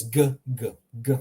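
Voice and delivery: "g" repeated as short, hard guh sounds. Shown as a demonstration. Teacher drills the letter for learners, hard "g". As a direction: say "g" like the start of goose. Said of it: "how you always pronounce it".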